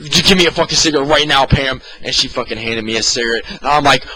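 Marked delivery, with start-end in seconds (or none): 0.1-1.8 frantic demand. Retold or imitated.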